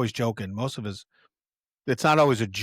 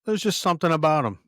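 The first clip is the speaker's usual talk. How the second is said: mock eager Doc; 6 semitones higher, 5 dB louder than usual. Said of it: "Doc says".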